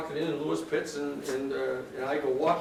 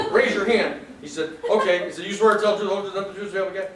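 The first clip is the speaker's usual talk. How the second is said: louder, commanding courtroom voice; judge's booming oath; 3 semitones higher, 5 dB louder, faster than usual. Retold or imitated. Judge swearing in his own clerk, loud and commanding. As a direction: bark out the oath like a stern judge.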